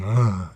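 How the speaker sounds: mimicking a wordless, drugged-out groan; mock dazed grunt; imitated incoherent groan. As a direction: groan back like someone unable to talk. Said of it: "couldn't even talk".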